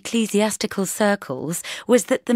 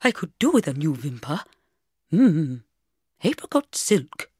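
gay vicar; 2 semitones lower than usual. A narrator's reading. Vicar goes on fussing about clothes.

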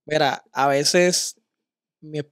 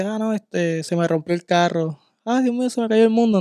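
higher, overwrought wail about the broken car; dramatic despair; 5 semitones higher than usual. Retold or imitated. Someone overreacting to a car breakdown, mock dramatic despair. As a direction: play it like the world just ended. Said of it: "uno dice".

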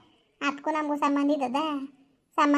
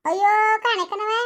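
exasperated outcry; 5 semitones higher, 5 dB louder than usual. Acted. Quarreling woman exclaims.

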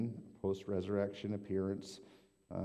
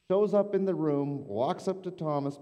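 dramatic build; 8 semitones higher, 6 dB louder than usual. Acted. Dramatic retelling of Jesus appearing.

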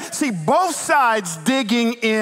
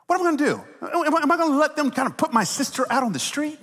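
higher-pitched, helpless exasperation; exasperated protest; 6 semitones higher, faster than usual. Retold or imitated. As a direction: retell a father's defensive plea. Dad defends bailing out his sister.

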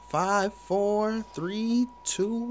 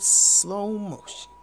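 slow motion; slower than usual. Shown as a demonstration. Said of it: "slow down the kill cam".

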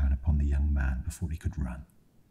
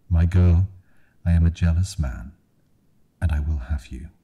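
calls out after her, louder; calling out; 4 dB louder than usual. Acted. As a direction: call after her, possessive. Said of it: "the man called out to her".

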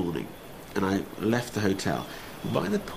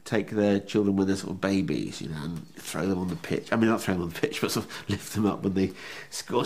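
normal talking voice

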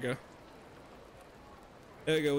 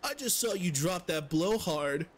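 fumbling fake Swedish NPC voice; half-hearted Swedish accent drifting toward generic European; attempted Swedish accent. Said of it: "I try to do Swedish".

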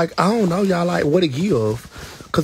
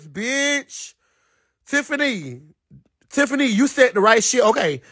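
high, excited gushing; squealing approval; hyped-up praise; 9 semitones higher than usual. Real, not acted. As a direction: cheer a friend on in a high voice. Hyping up a viewer's comment.

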